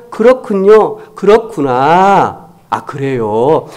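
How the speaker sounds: just let it land, slowly; accepting. Shown as a demonstration. Pastor demoing a simple accepting reply, slow and gentle. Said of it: "제가 그냥".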